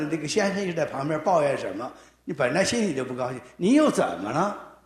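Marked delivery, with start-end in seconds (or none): 3.6-4.8 irritated, fed-up snap; annoyed. Retold or imitated. Wife fed up with her complaining husband, irritated. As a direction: let the exasperation show. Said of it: "一个就是充满了厌烦".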